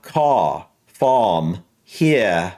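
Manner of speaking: Caw, farm and here with no R sound; non-rhotic British try. Shown as a demonstration. Vlogger copying a British accent, no R sound. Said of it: "more of an A sound than the R sound".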